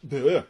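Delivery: low blurted noise after a flub; tongue-tied bleh. Real, not acted. Blogger tripping over his words mid-rant, tongue-tied. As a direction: blurt a bleh at your own stumble.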